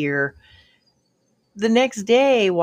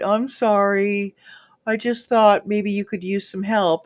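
put-on sheepish little kid; 4 semitones higher than usual. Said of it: "he looked like a little kid".

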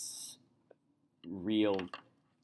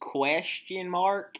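high, slow puzzled question; baffled; 10 semitones higher, 5 dB louder, slower than usual. Acted. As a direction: ask it in total confusion. Chad baffled.

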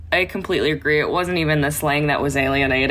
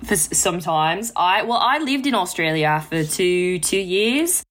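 put-on tentative Aussie accent; lightly put-on Australian vowels; attempted Australian accent. Co-host explaining her time in Australia, attempting an Aussie accent. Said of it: "should I try to do an Australian accent?".

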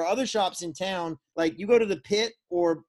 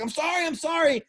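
mock apology; 11 semitones higher than usual. Guy apologizing in the water.

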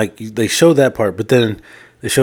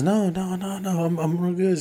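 imitating the woman; 9 semitones higher, 6 dB quieter than usual. Woman politely declining, retold.

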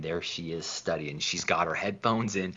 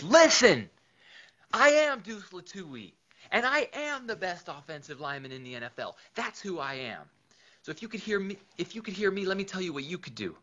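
much higher and louder, a booming boast; roaring self-belief; 12 semitones higher, 5 dB louder than usual. Acted. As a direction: shout it like the best lineman alive. The speaker playing Deuce, full conviction.

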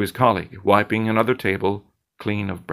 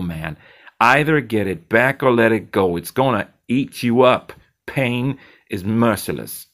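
blunt Zed; 2 semitones higher, 4 dB louder than usual. Acted. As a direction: drive the advice home as Zed.

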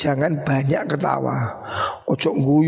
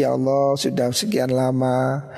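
repentant prayer; 2 semitones lower than usual. Retold or imitated. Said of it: "Harus ada waktu kita introspeksi". (doa penyesalan yang lirih dan pelan)

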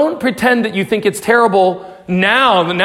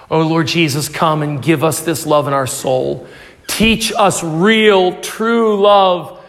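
closing prayer; 4 semitones lower than usual. Acted.

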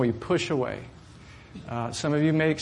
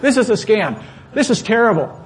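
the line again, higher and louder; loud retelling; 7 semitones higher, 7 dB louder than usual. Shown as a demonstration. Pastor repeating his words to the clerk, now louder and heated. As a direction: punch "This is a scam" out heated and loud.

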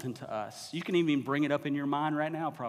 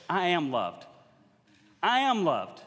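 higher and louder, building to a proclamation; confident declaration; 3 semitones higher, 4 dB louder, slower than usual. Shown as a demonstration. Preacher shows how believers should say it, higher and louder. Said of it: "if you truly believed it".

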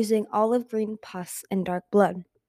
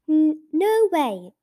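high, loud, drawn-out protest; indignant cry; 8 semitones higher, 7 dB louder, slower than usual. A narrator's reading. Blaze protesting her sister's claim, indignant cry. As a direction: cry out in slow, stammered protest. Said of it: "Blaze her cried".

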